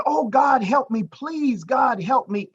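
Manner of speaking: high, loud shouted plea, slowing on please; a pleading shout for help, drawn out on please; desperate plea. Acted. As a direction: cry out to God with everything left. Climber's desperate second prayer.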